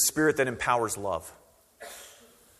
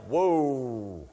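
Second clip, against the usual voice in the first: casual dismissive crowd; much slower than usual. Retold or imitated. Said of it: "they're all like".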